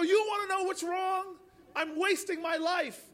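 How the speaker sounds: mock angry rant; retold angry yelling. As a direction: vent as if at the neighbor, half-yelled. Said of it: "I started yelling at her".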